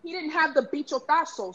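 bichotazo said with Spanish sounds; Spanish word. Real, not acted. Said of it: "The Spanish came out".

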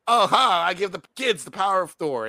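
mock the film's jokey tone; mocking glee. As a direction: throw it off like a silly joke. Mocks the film's flippant jokes.

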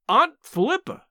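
high, astonished exclamation; amazed gasp. A narrator's reading. Amazed niece addresses her aunt, gasping. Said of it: "I gasped".

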